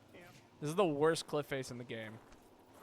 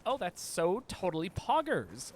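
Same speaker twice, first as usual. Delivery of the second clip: put-on slow, lightly drawn-out Valley Girl voice; a mild Valley Girl take on it; hint of a Valley Girl drawl; 4 semitones higher, slower than usual. Shown as a demonstration. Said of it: "the Valley Girl style".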